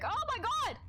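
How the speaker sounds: sudden high cry of shock; shocked gasp. Real, not acted. Streamer reacting to the ship lurching, shocked. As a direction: blurt it out in alarm.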